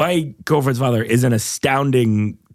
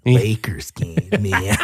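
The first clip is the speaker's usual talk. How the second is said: drawn-out stoner drawl, dropping on man; lazy, slow bad celebrity impression; Jack Nicholson; 4 semitones lower, slower than usual. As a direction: stretch it out like a spaced-out stoner. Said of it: "my Jack Nicholson is just Tommy Chong".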